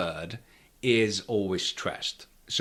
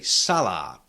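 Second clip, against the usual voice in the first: "salad" with SA stressed and a long, unstressed second a; stress on first syllable; 3 semitones lower than usual. Shown as a demonstration. Teacher saying we have to say it so, first-syllable stress on "salad". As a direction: punch the SA of "salad", keep the last vowel long. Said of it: "So we have to say salad".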